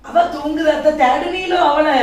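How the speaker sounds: loud reply called across. Acted. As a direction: project it loudly at an elder.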